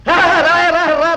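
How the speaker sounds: loud, excited beckoning; eager calling out. Acted. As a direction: call him over eagerly and loudly. Eagerly calling the postman over. (ఆత్రంగా గట్టిగా పిలుస్తూ)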